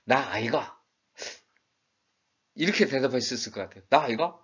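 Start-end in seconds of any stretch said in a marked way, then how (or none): 0.0-0.8 short Gyeongsang-style reply; Gyeongsang dialect. Shown as a demonstration. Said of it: "경상도 번역으로 한다면". 3.9-4.4 higher, louder Gyeongsang reply; Gyeongsang dialect. Shown as a demonstration. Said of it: "경상도 번역으로 한다면".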